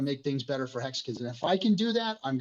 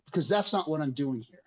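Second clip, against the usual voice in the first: emotional offense; 5 semitones higher than usual. Real, not acted. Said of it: "sorry for getting emotional about it".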